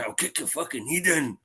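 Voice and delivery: understated imitation of a dodgy Scottish accent; Jason Statham's Scottish accent. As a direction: lightly put on a bad Scottish threat, softly. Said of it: "Jason Statham trying to do a Scottish".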